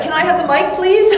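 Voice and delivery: put-on high, loud little-girl voice; eager child. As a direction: ask cheekily like a bold kid. Voicing child asking for mic.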